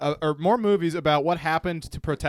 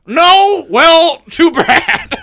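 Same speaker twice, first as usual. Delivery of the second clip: high, loud, slow creepy falsetto; 14 semitones higher, 15 dB louder, much slower than usual. Acted. Buffalo Bill parody voice.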